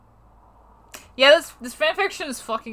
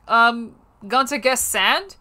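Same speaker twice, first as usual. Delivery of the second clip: confused; slower than usual. Acted. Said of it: "I laid confusedly".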